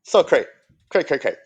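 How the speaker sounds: playful hype. Acted. Joking slang chant.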